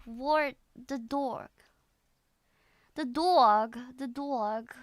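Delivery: lightly attempted New York aw vowels; New York accent. Shown as a demonstration. Practising what the video teacher showed, tentative New York accent. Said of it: "Maybe this guy can teach me".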